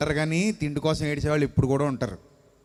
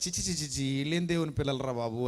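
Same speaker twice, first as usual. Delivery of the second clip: soft, low dismay; disgusted muttering; 5 semitones lower, 6 dB quieter than usual. Acted. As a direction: mutter it under your breath, appalled. Acted disgusted inner reaction.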